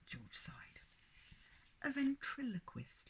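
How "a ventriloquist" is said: patient. A narrator's reading. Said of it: "he said patiently".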